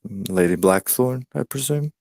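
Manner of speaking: "I presume" lifted high at the end as a question. Acted. Visitor greeting the lady of the house, questioning. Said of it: "I say questioningly".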